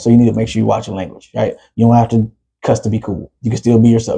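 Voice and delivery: acting out a level-headed talk with his son; calmed-down fatherly talk. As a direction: reason with the kid, settled and low-key. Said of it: "and I talk".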